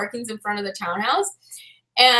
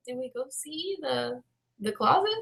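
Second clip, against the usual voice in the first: hesitant; 2 semitones lower, 12 dB quieter than usual. Retold or imitated. Realtor's hesitant question retold.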